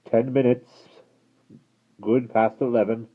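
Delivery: guard voice. Acted. Guard answering coachman.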